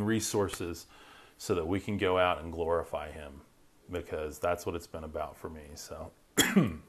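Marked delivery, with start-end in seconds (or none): 1.4-6.8 hoarse voice. Real, not acted. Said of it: "losing my voice here from talking".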